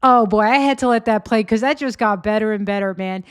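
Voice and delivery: loud, quick rush of delight; gleeful burst after the clip; excited. Real, not acted. Host reacting to clip, loud and gleeful.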